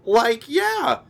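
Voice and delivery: high, slack stoner drawl; a laid-back cartoon slacker agreeing; Shaggy impression, high and loose. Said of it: "And Shaggy says".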